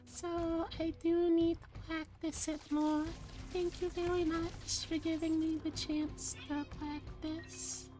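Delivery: high, bright cute anime voice. Shown as a demonstration. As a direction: pitch way up into a cute character voice. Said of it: "for letting me practice my Wu voice".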